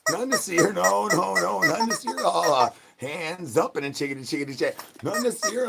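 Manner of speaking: high nothing-to-see-here; innocent act. Acted. Covering up after laughing.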